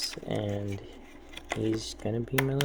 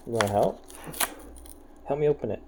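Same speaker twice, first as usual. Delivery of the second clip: coaxing pet voice; 2 semitones higher, much faster than usual. Real, not acted. Coaxing cat in baby talk.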